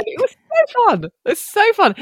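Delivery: high, gushing delight. Real, not acted. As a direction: squeal it with delight. Gushing about the show.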